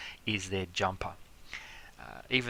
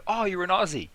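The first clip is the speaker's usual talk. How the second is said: mock surprise, pitched higher and louder; pleasantly surprised; 10 semitones higher, 6 dB louder than usual. Traveller meets an Aussie bartender in London, acted surprise. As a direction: act delighted to spot a fellow Aussie. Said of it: "and you go".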